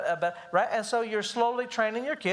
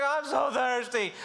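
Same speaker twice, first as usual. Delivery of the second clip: whiny; 4 semitones higher, slower than usual. Retold or imitated. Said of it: "I hate the whiny".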